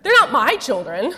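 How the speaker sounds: wry, laughing fed-up mom to husband; exasperated, half-joking, pushing the kids away; fed up mother. Retold or imitated. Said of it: "I say".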